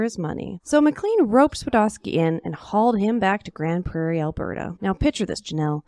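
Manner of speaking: put-on lively old-time storyteller voice; story narration. A narrator's reading. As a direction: tell it like a tall cowboy tale.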